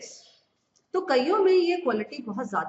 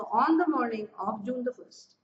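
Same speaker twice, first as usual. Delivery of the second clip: slow, word-by-word example phrase; slow teaching read; much slower than usual. Shown as a demonstration. Teacher slowly repeating the phrase to learn. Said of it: "जब आपको month और ये सब ऐसे बोलने हैं".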